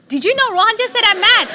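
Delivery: high, quick, thrilled rush; excited news-breaking. Retold or imitated. Mother calling the therapist about her son, breathlessly excited. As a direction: blurt the great news fast and high.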